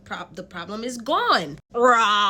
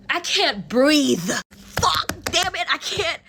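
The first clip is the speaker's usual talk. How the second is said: struggling to breathe; 6 semitones higher, 3 dB louder, slower than usual. Retold or imitated. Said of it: "I'm reminding myself to breathe".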